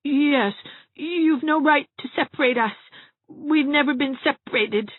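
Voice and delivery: muttered protest. A narrator's reading. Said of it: "muttered Gerald".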